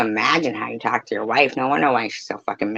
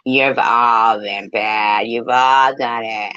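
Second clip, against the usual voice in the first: mock scolding; 3 dB louder, much slower than usual. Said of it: "don't fucking sit there going".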